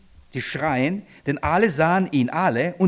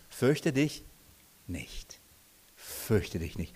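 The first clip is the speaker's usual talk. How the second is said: much softer, lower, almost hushed; gentle comfort; 6 semitones lower, 8 dB quieter, much slower than usual. Acted. Jesus comforts the fallen Johannes, hushed and gentle. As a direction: soothe a man who has fallen down. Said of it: "was sagt er".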